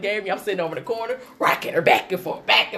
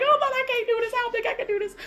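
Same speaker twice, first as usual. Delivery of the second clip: mock despair; much faster than usual. Exhausted young mom at night.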